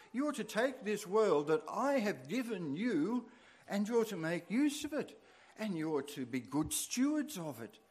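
preacher's elevated, declaring voice of God; God commissioning Adam and Eve. Acted. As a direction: proclaim it as a charge from God. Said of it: "where God is saying to Adam and Eve".

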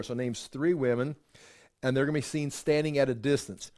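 normal talking voice

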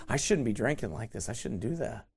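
sheepish backslider. Retold or imitated. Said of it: "They look at us and tell us".

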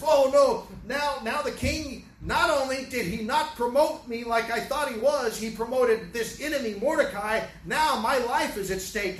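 Haman realizing his life is at stake; panicked Haman. Retold or imitated. Preacher voicing Haman at the banquet, panicked. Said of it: "he's pleading and begging for his life".

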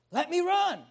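eager plea. Acted. Ahimaaz begs again.

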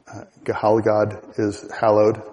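Gehalgad said slow and careful; Old English word, slowly. Shown as a demonstration. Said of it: "hear the word hallowed in there".

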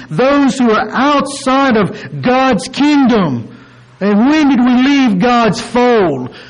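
high, drawn-out sermon emphasis; emphatic preaching. Real, not acted. Preacher to those outside God's kingdom, emphatic preaching. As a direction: press it on the congregation slowly.

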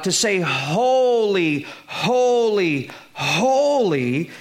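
each "holy" slow and weighted, stressed in turn; emphatic repetition. Shown as a demonstration. Preacher showing Hebrew emphasis by repetition, slow and stressed. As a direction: lean into every "holy" slowly. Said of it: "are communicated through repetition".

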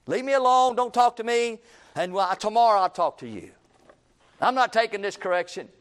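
defiant refusal. Acted. Preacher acting a person refusing correction, defiant and irritated. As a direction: push the person away, loud and annoyed. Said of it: "that's a worldly way of doing it".

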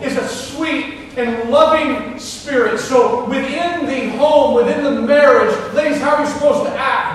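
loud, high, emphatic preacher delivery; full-force preaching. Real, not acted. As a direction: preach it out to the whole congregation.

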